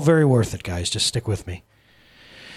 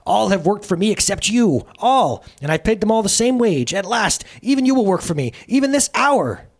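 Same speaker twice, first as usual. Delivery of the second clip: gloating Sin; 11 semitones higher, 5 dB louder than usual. Acted.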